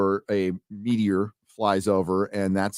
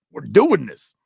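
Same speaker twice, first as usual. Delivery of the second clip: mock heroine; 4 semitones higher, 5 dB louder than usual. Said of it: "She's like".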